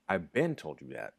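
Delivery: been stressed, falling tune. Shown as a demonstration. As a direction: lean on been in I've been told you that. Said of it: "So if I say".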